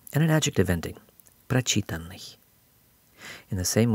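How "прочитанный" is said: прочитанный stressed on чи, the second syllable; прочитанный with unstressed тан after a stressed чи; stress shifted back. Shown as a demonstration. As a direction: lean on чи in прочитанный. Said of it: "stress will shift back one syllable".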